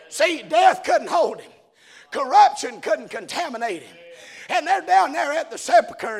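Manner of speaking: lively, driving sermon storytelling; animated preaching. Real, not acted. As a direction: preach the tale with rising fervour. Preaches at full force, voicing characters.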